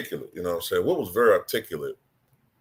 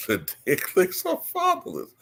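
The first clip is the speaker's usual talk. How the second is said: Mike Tyson impression; 4 dB quieter than usual. Shown as a demonstration. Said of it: "Mike Tyson".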